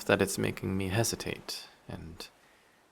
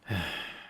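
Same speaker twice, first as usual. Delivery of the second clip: long falling sigh; a disappointed sigh through the nose; weary sigh; 4 dB quieter than usual. Acted. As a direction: let out a tired sigh. Creature regrets captive listener.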